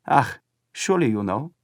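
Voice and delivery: a hint of sly smiling German boy; knowing. A narrator's reading. Boy hints at the flag's meaning to Paul, sly smile. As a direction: tease him knowingly. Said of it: "with a curious smile".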